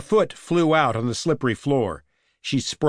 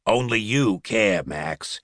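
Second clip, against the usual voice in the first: shaky voice; 3 semitones lower, slower than usual. A narrator's reading. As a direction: voice trembling with nerves. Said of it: "my voice shaky".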